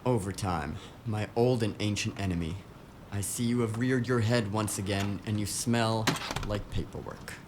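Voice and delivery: a hint of a brooding villain; mock-dramatic villain speech. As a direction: sneer at overtime like a nemesis, lightly. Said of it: "And people say I'm the dramatic one".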